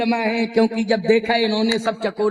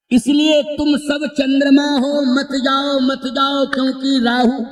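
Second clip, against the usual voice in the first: lightly raised, urgent proclamation; a touch of a crier warning people off; herald's warning; 3 semitones higher than usual. Acted. Bards urge the kings to stay away, mild herald's warning. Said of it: "अब बंदी क्या बोले?".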